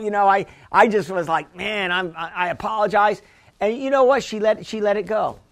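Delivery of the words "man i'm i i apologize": soft, lowered retold apology; apologetic. Preacher retelling his apology to the lady, softly apologetic. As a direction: back down gently, imitating a humble apology. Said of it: "I was very a-, apologetic".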